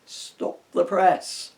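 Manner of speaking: big booming call, slow and loud; booming Santa. A narrator's reading. Santa booms orders at his elves. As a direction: boom it out to the whole workshop.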